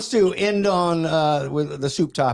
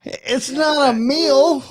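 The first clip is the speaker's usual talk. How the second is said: slow mock wail; whiny; 7 semitones higher, 4 dB louder, much slower than usual. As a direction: whine it out playfully. Mock whine protest.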